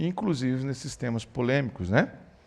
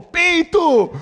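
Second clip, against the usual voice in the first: put-on high, loud childish blurt through a laugh; gritinho de criança; 10 dB louder than usual. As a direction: blurt it out like a giggling kid. Filho grita a palavra rindo. (grito agudo e risonho de menino)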